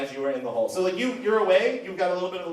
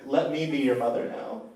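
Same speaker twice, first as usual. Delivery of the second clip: tender prayer; 4 semitones lower than usual. Acted. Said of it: "you're just like".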